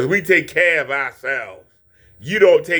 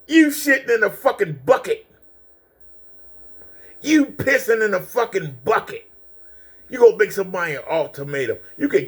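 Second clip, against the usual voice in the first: higher pitched, heated insults; angry retort; 5 semitones higher than usual. Real, not acted. Streamer snapping back at a rival who threatened him, angry and higher. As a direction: fire it back at him, furious.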